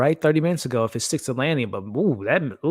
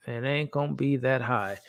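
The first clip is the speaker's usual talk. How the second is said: softer repeat; 5 dB quieter than usual. Real, not acted. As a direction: let the repeat sink quietly, like a muttered aside. Repeats his sneak peek score.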